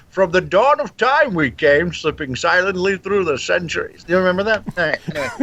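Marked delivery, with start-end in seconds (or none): 0.1-4.0 Sean Connery impression. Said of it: "When Sean Connery's like".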